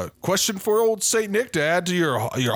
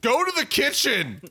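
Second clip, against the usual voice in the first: shouted order; 9 semitones higher than usual. Acted. Santa ordering the elves to the kitchen, shouted. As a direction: send them off with a yell.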